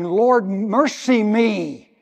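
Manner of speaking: loud, slow cry for mercy; woman crying out to Jesus; mock scream. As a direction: draw out a desperate plea. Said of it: "she screams".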